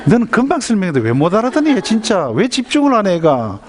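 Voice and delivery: high, swooping acted scolding; exasperated mother. Mother scolding her child who just misunderstood, rising exasperation. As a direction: pitch up in mock parental irritation. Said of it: "막 화가 나는 겁니다".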